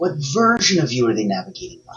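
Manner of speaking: stress placed on the word "version".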